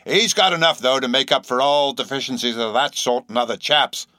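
HE'S jumped up high in pitch; nervous stress on "He's" in an old sailor's voice; abrupt, nervous emphasis. A narrator's reading. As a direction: hit "He's" suddenly, then carry on. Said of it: "abruptly said the stranger, placing a nervous emphasis".

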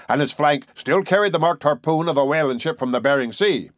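emphatic storyteller with a touch of indignation; lightly voiced indignant harpooner. Harpooner arguing with the professor, mildly indignant. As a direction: argue the case like an old whaler.

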